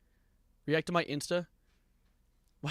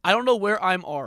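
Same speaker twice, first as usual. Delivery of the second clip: mimicking lost kid; 3 semitones higher, 6 dB louder than usual. Repeats the clip kid's bad grammar.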